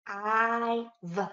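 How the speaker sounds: hive split into separate sounds, I-V. Shown as a demonstration. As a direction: stretch out each sound of I-V with gaps between. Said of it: "How many sounds do you hear?".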